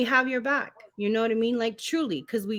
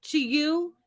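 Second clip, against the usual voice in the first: incredulous; 8 semitones higher than usual. Retold or imitated. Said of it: "And it's like".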